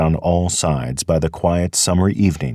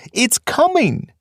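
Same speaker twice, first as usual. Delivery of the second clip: "coming" drawn out slow and very high; the second "coming" slower and higher, pleading; desperate repetition. Acted. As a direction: stretch "coming" out in rising dread, slowly and high. Fiver repeats warning, more desperate.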